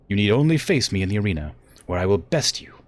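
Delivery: emphatic theatrical threat; formal, commanding villainous challenge; menacing warrior daughter. Acted. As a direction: deliver the ultimatum with proud force. Acts Victoria's threat.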